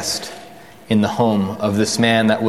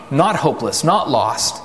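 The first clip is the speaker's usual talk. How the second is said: ordinary talk, nothing marked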